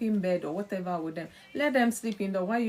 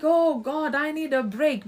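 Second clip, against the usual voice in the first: exasperated cry; 6 semitones higher, 7 dB louder than usual. Retold or imitated. Overworked spouse crying out.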